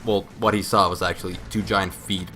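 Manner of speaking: usual speaking voice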